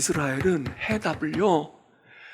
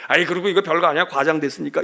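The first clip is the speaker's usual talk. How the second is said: dismissive brush-off; faster than usual. Retold or imitated. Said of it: "이렇게 할 수도 있어".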